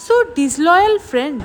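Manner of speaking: drawn out very slowly, mildly annoyed; miffed. Acted. Luji after her friend leaves her behind, slow and annoyed. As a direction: stretch each word in light mock disgust. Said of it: "লুজি ভীষণ খচে যায় আর বলে".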